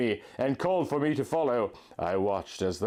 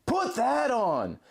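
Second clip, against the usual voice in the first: Link, tender guide; 5 semitones higher than usual. A narrator's reading. Link guiding his love through the blizzard, high and gentle. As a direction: lead her by voice through the snow. Link's voice in the story.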